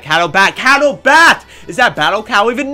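high, loud name-call; exasperated yell. Real, not acted. Gamer calling out player who attacked him, exasperated yell.

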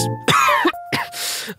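acted cold-and-flu cough; coughing fit. Voiceover artist ill at a recording, coughing. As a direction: cough right through the recording. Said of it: "feeling like this".

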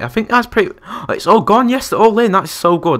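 high, loud delighted squeal; thrilled the animals are all in; excited. Real, not acted. Gamer thrilled the animals finally got into the barn, excited and high. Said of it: "that made me so happy".

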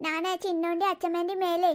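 put-on soft toddler storytelling; little boy. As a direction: recount a dream quietly in baby talk. Little boy recounting his dream. (കൊച്ചുകുട്ടിയുടെ പതുങ്ങിയ കുഞ്ഞുഭാഷ)

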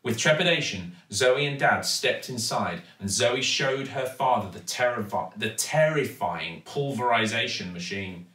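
usual speaking voice

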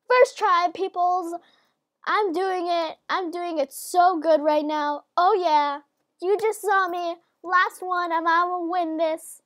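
high, loud excitement; loud and thrilled, riding the success; gleeful boasting. Real, not acted. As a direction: crow about the winning streak. Celebrating a winning streak.

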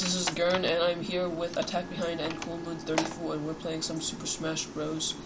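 rushed intro without a breath; all in one breath. Real, not acted. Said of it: "That intro in all in one breath".

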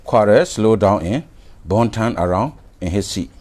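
very slow, word by word textbook reading; slow read-aloud. Shown as a demonstration. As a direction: spell out each word slowly for the class. Teacher reads textbook sentence aloud.

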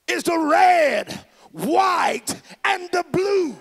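red, white and blue each hit loud and slow; slow shouted climax. Real, not acted. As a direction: land every colour as a big slow shout. Climax of the rally line.

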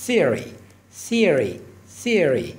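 theory with tongue tip between the teeth; th sound. Shown as a demonstration.

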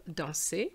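danser ending in French 'ay', silent r; final A sound. Shown as a demonstration. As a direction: say danser as 'don-say'. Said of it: "give you the sound A".

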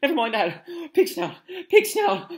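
loud, high, breathless urgency; panted. Acted. Harry hurrying the portrait to open, panting loudly. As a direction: pant the password out urgently. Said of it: "panted Harry".

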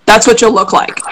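talking with cheeks sucked in; hollow the cheeks while speaking. Shown as a demonstration. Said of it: "suck in your cheeks like this".

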